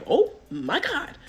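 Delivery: high, drawn-out dread; slow, high-pitched retold alarm; mock dread. Bad liar in the car as police approach, dreading it.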